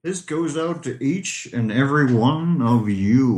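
American accent. Shown as a demonstration. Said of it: "Now the other one has to".

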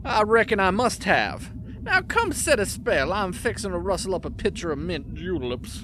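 lazy Southern drawl, easy and warm; slow southern drawl. Acted. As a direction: drawl it like an old Southern gentleman. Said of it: "Did you become Southern".

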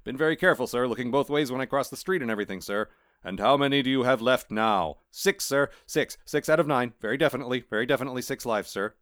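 eager cat insisting to Death; nervous cat. Acted. Cat voiced answering Death.

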